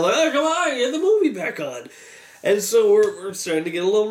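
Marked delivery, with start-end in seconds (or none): 0.1-1.9 high-pitched exasperated complaint; mock moaning. Audience wanting the movie back on, moaning in protest. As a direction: moan it like a fed-up audience member. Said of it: "some moaning now".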